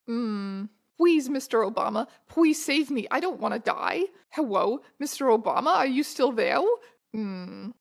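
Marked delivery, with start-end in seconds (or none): 1.0-6.6 cutesy uwu voice turning l into w, hewwo; uwuified pleading. Acted. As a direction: plead in a cutesy baby-talk lisp. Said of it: "uwuified words".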